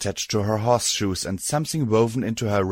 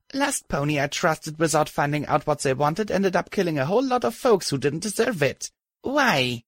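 much higher, strained defiant voice; strained young mare; 6 semitones higher than usual. Acted. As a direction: push back through pain. Wounded narrator confronts Rampage.

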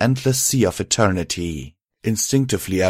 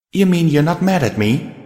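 high, pleading question; incredulous, pitched-up worry; anxious disbelief; 9 semitones higher, 4 dB louder than usual. Acted. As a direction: ask hoping for forgiveness. Anxious question after the kiss.

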